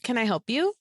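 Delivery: "Can I help you?" sung up high, sugary and fake; saccharine. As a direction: sweeten "Can I help you?" until it is cloying, rising high. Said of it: "goes in a really saccharine kind of like".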